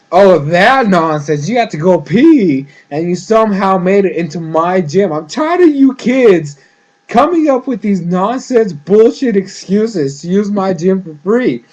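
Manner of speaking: mock-angry, emphatic rant; retold scolding. Gym guard catching Korra sneaking in, mock angry telling-off. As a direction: imitate a fed-up guard telling off kids.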